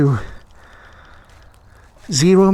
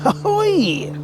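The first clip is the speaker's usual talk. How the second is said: cheery shout; 13 semitones higher than usual. Real, not acted. Cheery call at ride start.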